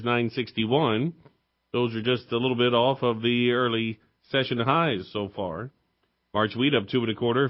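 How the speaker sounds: steady radio market report read; reading stock prices. Acted. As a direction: rattle off the commodity prices like a farm broadcaster. Host reads commodity market report.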